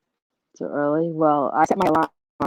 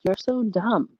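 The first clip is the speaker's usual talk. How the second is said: higher-pitched mock reproach; mild self-scolding; 5 semitones higher than usual. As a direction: lightly chide yourself. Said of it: "start talking to yourself".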